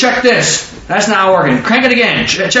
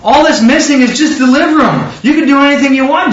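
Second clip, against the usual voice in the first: earnest plea; 8 semitones higher than usual. Retold or imitated. Father pleading with Jesus.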